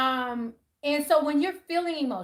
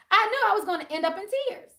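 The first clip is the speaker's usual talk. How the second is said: laughing; 7 semitones higher, faster than usual. Real, not acted. Laughing at herself.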